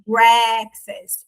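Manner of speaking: stretched open first vowel in "breakfast"; pronunciation demo. Shown as a demonstration. Teacher showing students how the word turns into é, pronunciation demo. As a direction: say "breakfast" slowly with a wide open "é". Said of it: "Mas a pronúncia, ela vira, é".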